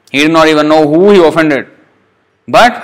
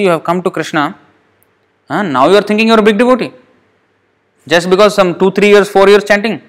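scolding the mind; 5 semitones higher than usual. Acted. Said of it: "We have to beat our mind".

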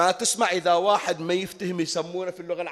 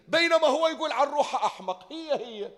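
amused laugh; 10 semitones higher than usual. Real, not acted. Laughs at the irony.

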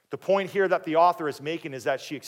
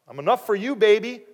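clueless husband; 7 semitones higher, 7 dB louder than usual. Acted. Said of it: "He just looked at the surface".

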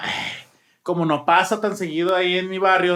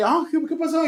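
mock startled neighbor; 9 semitones higher than usual. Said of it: "la clásica que te agarran acá que".

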